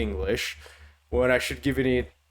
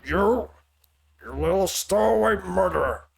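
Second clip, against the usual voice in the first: higher-pitched accusing outburst in an attempted Heavy accent; 6 semitones higher, 3 dB louder than usual. Reader voicing an accuser in a game, attempted Heavy accent. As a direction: try Heavy's accent, indignant and rising in pitch. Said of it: "Abby's accent is so weird".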